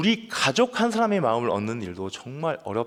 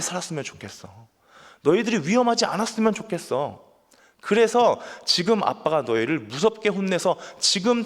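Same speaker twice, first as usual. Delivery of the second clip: earnest pleading father; 5 semitones higher, 3 dB louder than usual. Retold or imitated. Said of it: "이렇게 표현을 해요".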